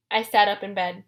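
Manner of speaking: usual speaking voice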